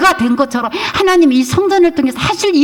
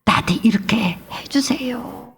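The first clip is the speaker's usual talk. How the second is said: slow whispered prayer; hushed pleading prayer; whispered plea; 6 dB quieter than usual. Retold or imitated. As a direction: breathe the plea softly, slowly.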